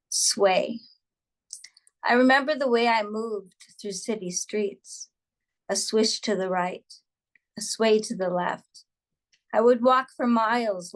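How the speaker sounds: measured verse with pauses between phrases; poem reading. A narrator's reading. Poet recalls walking city streets for an audience, measured poem reading.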